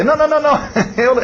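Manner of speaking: high, laughing refusal; laughing protest. Retold or imitated. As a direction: wave off the request with a laugh. Acts protest at request to play.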